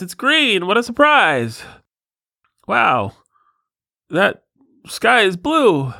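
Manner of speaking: high, slow, dopey amazement at everything; dim-witted moron voice. Pretend. Host mocking his own dimness, high dopey awe. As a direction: play a total moron gasping at the obvious. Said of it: "the more moronic you are".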